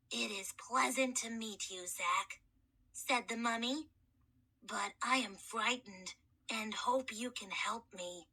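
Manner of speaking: put-on a boy's voice unused for millennia; gentle, courteous mummy soothing a scared boy; hoarse mummy kid. Mummy voice held.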